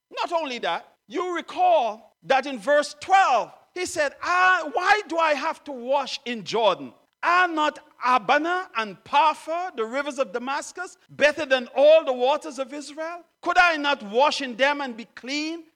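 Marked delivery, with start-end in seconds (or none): 4.2-15.7 angry. Acted. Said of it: "went away in rage".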